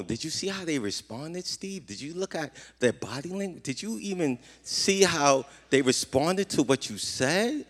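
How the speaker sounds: a hint of a gentle wife, hushed; wife's soft question. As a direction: quietly imitate the wife asking after church. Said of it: "thank God for my wife".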